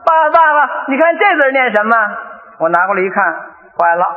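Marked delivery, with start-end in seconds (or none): 0.0-2.0 lightly voiced child, a little higher; a hint of a kid asking Dad; son asking. Son asking father about a character, lightly childlike. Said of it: "那天他就问我了".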